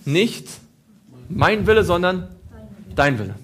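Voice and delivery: loud, ringing prayer at Gethsemane. Retold or imitated. Jesus praying loudly in Gethsemane, fervent loud prayer. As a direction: cry out the surrender. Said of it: "Gethsemane hat er gekämpft".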